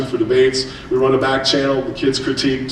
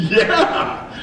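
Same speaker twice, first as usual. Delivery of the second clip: proud; 3 semitones higher than usual. Retold or imitated. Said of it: "I puffed my chest out".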